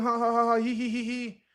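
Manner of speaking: high-pitched mock ha-ha, he-he; spoken fake laughing; imitated chatter laughter. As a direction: rattle off pretend laughter in a high, even string. Mimics chatting and laughing with homeboy.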